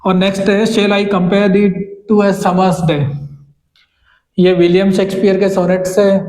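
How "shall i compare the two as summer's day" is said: slow reading. Shown as a demonstration. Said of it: "अब यहाँ पे स्पोकन एम्फेसिस की बात करेंगे".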